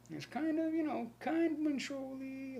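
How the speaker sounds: hammed-up squeaky sarcasm; mock high voice. Mocking the CIA website.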